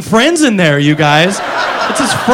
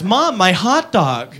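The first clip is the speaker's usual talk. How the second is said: put-on slow, quieter whine of a spoiled kid; bratty girl; 3 semitones lower, 4 dB quieter, much slower than usual. Comic mimicking the girl from the ad, lightly whiny. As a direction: drag it out like a sulky little girl. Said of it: "she goes".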